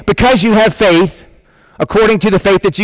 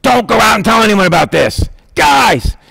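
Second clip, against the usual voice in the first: stern warning; 3 semitones higher than usual. Retold or imitated. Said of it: "sternly warns them".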